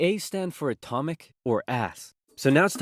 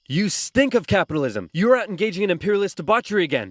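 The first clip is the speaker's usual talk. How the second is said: angry accusation; 4 semitones higher, 4 dB louder than usual. Acted. Acted jealous domestic quarrel.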